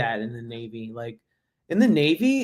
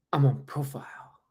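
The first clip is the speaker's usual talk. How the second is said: soft, drooping excuse to a sergeant; quiet mock plea of being excused; reel impression; 5 dB quieter than usual. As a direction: mimic a feeble soldier's excuse. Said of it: "that reel? It's like".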